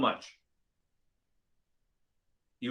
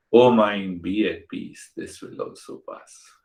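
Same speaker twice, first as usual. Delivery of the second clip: calming self-talk; 3 semitones lower than usual. Acted. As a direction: soothe your own mind gently. Soothing words to the mind.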